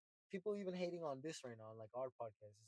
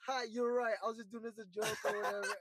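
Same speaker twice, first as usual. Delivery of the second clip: laughing it off; 5 semitones higher than usual. Retold or imitated. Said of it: "And then I'm like".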